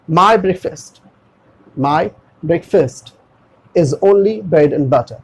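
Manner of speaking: breakfast as "brek-fust" in a slow example; model pronunciation. Shown as a demonstration. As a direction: model breakfast with a short last vowel. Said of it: "फास्ट नहीं". (धीरे से, breakfast को ब्रेक-फ़स्ट बोलकर)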